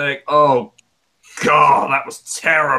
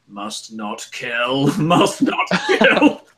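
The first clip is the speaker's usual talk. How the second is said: strained restraint; much slower than usual. Retold or imitated. Restraining himself from attacking wrestler.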